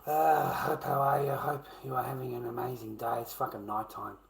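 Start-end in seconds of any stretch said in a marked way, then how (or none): 0.1-3.2 reads the fan's message high and sugary; reading chat in a cooing mock voice; mock sweet chat voice. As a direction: put on a sugary fan voice, higher.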